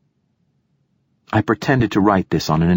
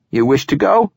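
sharp; 8 semitones higher, 3 dB louder than usual. A narrator's reading. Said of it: "he snapped".

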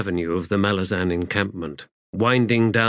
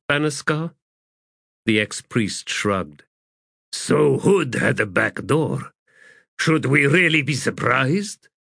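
weary ex-priest; 5 semitones higher than usual. Acted. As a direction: play a jaded former priest grumbling. Voices the ex-priest.

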